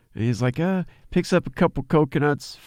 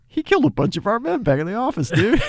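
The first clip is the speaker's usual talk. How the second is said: mock henchman report; 10 semitones higher, faster than usual. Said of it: "he's like".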